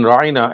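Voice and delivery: final "ra'ina" pronounced ra-EE-na; distorted pronunciation. Shown as a demonstration. Showing the stress on ain, "ra'ina" as ra-EE-na. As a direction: stress a long "ee" inside "ra'ina". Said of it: "make it sound like".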